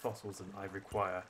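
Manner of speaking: a lightly voiced stuffy professor owl; hint of a posh museum curator; sophisticated tone. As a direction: read it like a pompous scholar, barely shifted. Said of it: "a bit of a more sophisticated tone".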